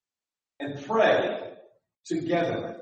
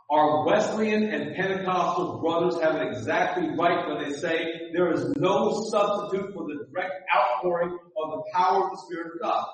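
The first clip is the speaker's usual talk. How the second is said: fuller and louder. Shown as a demonstration. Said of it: "Let me say that again".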